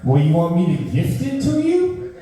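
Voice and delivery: lightly voiced posh girlfriend; mock rich girlfriend. Mocking girlfriend's offer.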